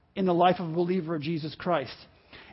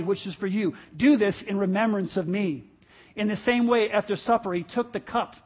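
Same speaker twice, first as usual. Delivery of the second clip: scripture reading. Acted. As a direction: read it reverently before communion.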